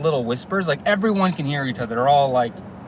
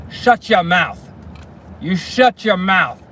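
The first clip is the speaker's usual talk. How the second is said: mock angry snap; 4 semitones higher, 4 dB louder, slower than usual. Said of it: "he points right at her".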